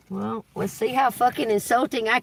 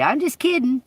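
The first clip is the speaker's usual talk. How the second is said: higher, sing-song "kidding"; mocking; 7 semitones higher than usual. Shown as a demonstration. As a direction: toss off "I'm just kidding" snidely. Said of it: "say it in that manner".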